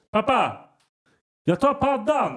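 high, loud imitation of a kid; child calling out. Early-rising kid announcing to sleeping dad, calling out. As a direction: holler for dad like a little kid.

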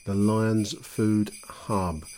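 very slow, deliberate. Shown as a demonstration. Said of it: "ad read emphasis".

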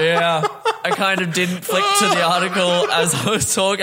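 laughing through the words; sheepish laugh while admitting it. Real, not acted.

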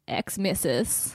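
whispered with distaste. Real, not acted. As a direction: breathe the word. Whispered term she dislikes.

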